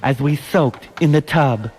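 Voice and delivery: poem recitation. Acted.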